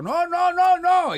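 high-pitched alarmed cry; retold helpless wail of dismay; mock panic. Driver hears the crash behind him, mock panicked cry. Reacting as the semaphore falls.

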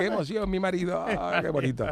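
soft, choked-up gushing; mock teary wife. Adrian moved at home by her husband's win, soft gushing.

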